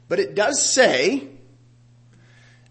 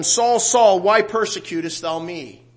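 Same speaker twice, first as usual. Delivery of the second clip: loud and high, calling Saul by name; proclaimed heavenly call; 3 semitones higher, 6 dB louder, slower than usual. Acted. Preacher voicing the voice from heaven, proclaiming loudly. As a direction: boom it out like the voice from heaven.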